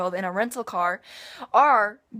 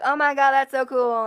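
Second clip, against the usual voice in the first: high, loud mock-excited gushing; imitating impressed classmates; 6 semitones higher, 6 dB louder than usual. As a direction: gush like an amazed classmate. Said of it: "they'd be like".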